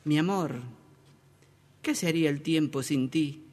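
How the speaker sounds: lightly voiced woman in love, soft and low; mock loving. Girlfriend to her boyfriend in the plaza, lightly mocked as loving. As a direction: murmur it tenderly, low and understated. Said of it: "ella, muy enamorada".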